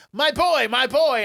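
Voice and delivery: high-pitched wailing parent; mock frantic. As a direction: act out a mother rushing to her boy. Frantic mother arrives, retold.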